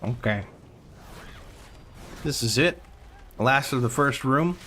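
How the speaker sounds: talking with mouth full. Real, not acted. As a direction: speak around a bite of food. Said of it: "My apologies for speaking with my mouth full".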